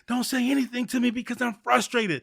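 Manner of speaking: exasperated don't-talk-to-me voice; mock frustrated rant. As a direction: play the irritated guy who wants everyone gone. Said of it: "We're like".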